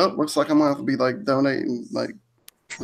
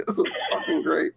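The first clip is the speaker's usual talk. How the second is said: laughing; 2 semitones higher, 4 dB quieter than usual. Retold or imitated. Laughing retold reply.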